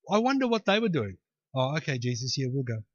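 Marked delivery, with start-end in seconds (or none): 1.6-2.8 low, soft giving in; meek compliance. Acted. Mourners to Jesus, soft meek agreement. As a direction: back down quietly and agree to leave.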